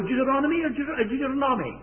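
"Deuteronomy" two ways, with a false start; two pronunciations. Shown as a demonstration. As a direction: stumble between two stresses of "Deuteronomy". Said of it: "How do you pronounce".

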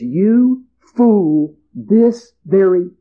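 God pronouncing judgment on the farmer, slow and solemn. Acted. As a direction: pronounce the sentence gravely, slowing on this very night. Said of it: "the voice of God the Creator that says".

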